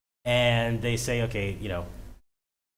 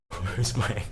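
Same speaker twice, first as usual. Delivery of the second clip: lightly voiced crypto bro; a hint of a hyped crypto bro; 3 semitones lower than usual. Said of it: "He might as well be a crypto bro".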